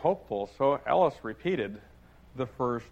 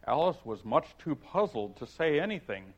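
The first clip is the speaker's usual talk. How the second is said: ordinary talk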